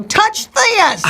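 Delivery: squeaky little touch this; high, coaxing tone to her husband; high mock plea. To her husband at night, high and coaxing. Wife telling husband to feel sweat.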